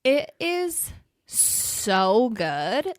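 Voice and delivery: gushing. Real, not acted. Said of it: "gushing about the movie".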